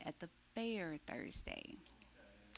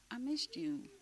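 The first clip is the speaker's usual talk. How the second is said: whispered and higher, gently; soft whisper; 8 semitones higher than usual. Shown as a demonstration. Showing the group what she really means, whispered. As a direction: breathe it out like a confession. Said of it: "that's my way of saying".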